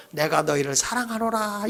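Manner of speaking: lightly voiced God, soft and solemn; a quiet, gentle declaration as God; God's voice. God appearing to the people of Israel, softly solemn. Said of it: "하나님이 이스라엘 백성에게 나타나셔서".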